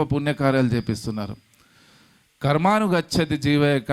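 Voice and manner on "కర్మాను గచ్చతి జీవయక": emphatic verse quote. Shown as a demonstration. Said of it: "అంటే ఆ ఎలాంటి కర్మలు చేయాలి".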